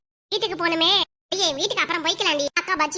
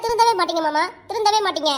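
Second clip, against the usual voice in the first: mildly heated, repeated scolding; angry reproach. Acted. Wife to husband who wants his mother along, angry reproach. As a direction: give up on him in irritation. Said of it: "ஏன்டி இப்படி கோவப்படுற?".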